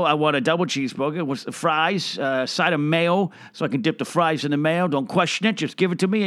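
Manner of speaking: mildly pushy retold food order; barked order. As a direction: rattle off the order, brooking no questions. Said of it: "I started barking orders there".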